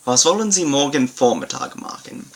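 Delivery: careful German pronunciation, Was wollen Sie morgen Vormittag machen; German model sentence. Shown as a demonstration. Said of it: "I will begin again with the Hauptsatz".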